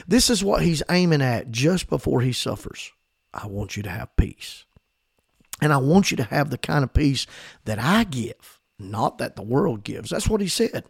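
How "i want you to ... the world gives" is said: tender Jesus. Retold or imitated. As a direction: speak it gently to those you love. Jesus' words to his disciples.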